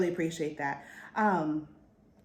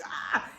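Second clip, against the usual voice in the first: imitated voiceless cry of panic; hammed-up choking shock; mock heart-attack gasp. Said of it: "he's having this heart attack".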